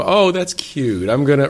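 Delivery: sing-song impression of a naive visitor; mock naive delight. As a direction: play the clueless visitor expecting something cute. Imitating visitors' naive reaction.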